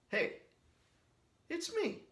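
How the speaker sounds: very high, squeaky put-on voice; Han Solo impression. Vlogger's favourite Han Solo bit, squeaky and high. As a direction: squeal it like a goofy cartoon. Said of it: "my all-time favorite impression".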